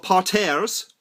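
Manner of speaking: "parterres" said as "par-tairs"; odd pronunciation. Real, not acted. Vlogger announcing a video in a couple of "parterres", oddly pronounced "par-tairs". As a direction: stretch "parterres" into a French-sounding "par-tairs". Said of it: "I don't know why I said it like that".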